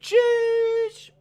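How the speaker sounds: high, loud, drawn-out shush at the crowd. Acted. Streamer shushing a rowdy crowd, loud high shush. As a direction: shush them down hard. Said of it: "I just shooshed everyone".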